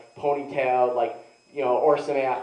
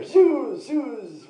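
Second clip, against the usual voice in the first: high, drawn-out imitation of a crowd's screams; mock screaming; 10 semitones higher, 4 dB louder than usual. Rioters screaming at each other in Hebrew, high mock scream. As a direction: mimic rioters yelling back and forth. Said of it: "Screaming at each other".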